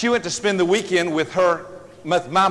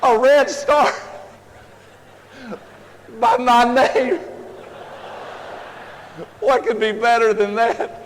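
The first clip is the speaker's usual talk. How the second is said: put-on thrilled child; 5 semitones higher, slower than usual. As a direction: savour the star like it's the best prize ever. Child delighted by red star.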